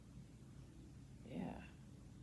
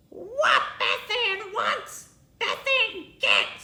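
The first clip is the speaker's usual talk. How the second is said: squawked; 9 semitones higher, 5 dB louder than usual. Acted. Beth Ann swooping on the lunch, squawking. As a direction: squawk it like a pterodactyl. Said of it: "squawked Blubbering Beth Ann".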